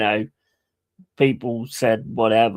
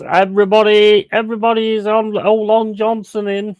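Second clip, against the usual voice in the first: imitating cartoon singsong; 9 semitones higher, 5 dB louder than usual. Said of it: "and then it goes".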